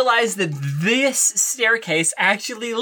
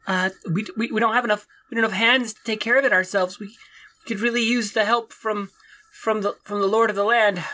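nervous farmer; 3 semitones higher than usual. Acted. Farmer pleads again.

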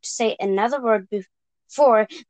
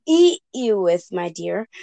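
roaring wolf. Acted. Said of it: "roared the wolf".

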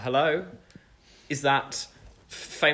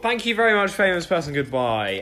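loud mock goodbye; 3 semitones higher, 4 dB louder than usual. Hanging up pretend call.

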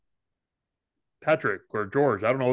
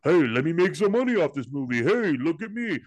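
mocking imitation; 4 semitones higher than usual. Mocks the actor making movies.

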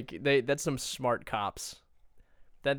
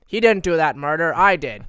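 dumb criminal voice; 4 semitones higher, 10 dB louder than usual. Retold or imitated. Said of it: "But it's like".

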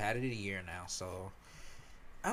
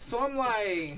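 disgusted laughter; 6 semitones higher, 4 dB louder, much slower than usual. Real, not acted. Laughing retelling.

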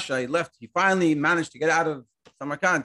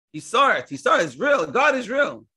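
emphatic; 8 semitones higher, 4 dB louder than usual. Acted. Preacher stressing the point.

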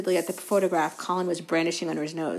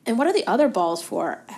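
breathless Colin; 3 semitones higher, 8 dB louder than usual. A narrator's reading. Colin trots beside Harry, breathless and eager. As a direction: gush the questions without pausing.

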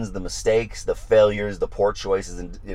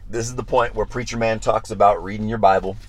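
usual speaking voice

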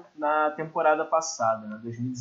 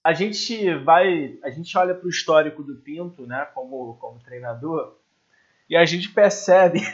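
stifled giggles; 4 dB louder than usual. Real, not acted. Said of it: "nem eu consigo ficar sério".

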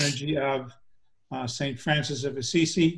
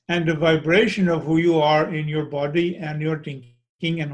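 put-on Kuthumi, Indian accent; 4 dB louder than usual. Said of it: "in an Indian accent".

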